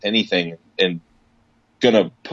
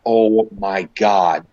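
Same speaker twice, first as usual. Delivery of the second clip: slow, drawn-out mock dismay; exasperated disbelief; much slower than usual. Reaction to excessive foam rolling.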